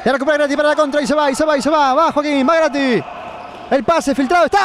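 x2 fast play call; live play-by-play. Acted. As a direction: rattle off the counterattack.

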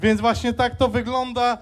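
lisp. Real, not acted. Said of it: "mogę trochę seplenić, bo mam wstawiane zęby".

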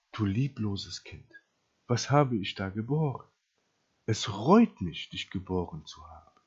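quietly acted parental disappointment; disappointed mother. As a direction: let the regret sink in, dropping low at the end. Wenn eure Mutter euch sagen würde.

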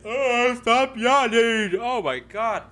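high, loud startled yell, stretched out; startled shout. Real, not acted. Gamer caught off guard by a scare, startled shout. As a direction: jump at a sudden scare. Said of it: "that caught me completely off guard".

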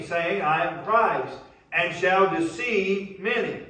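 fired-up sermon delivery; impassioned preaching. Real, not acted. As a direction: preach it hard, driving each phrase to the congregation. Preacher at full force.

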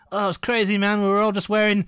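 loud, high nostalgic gushing; eighties documentary voice. Retold or imitated. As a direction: gush like an aging party-goer. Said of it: "how people describe the eighties".

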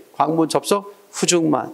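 group 광분 접속 together, pause, then 후중만; four-three reading rhythm. Shown as a demonstration. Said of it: "이런 식으로".

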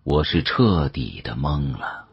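ordinary delivery

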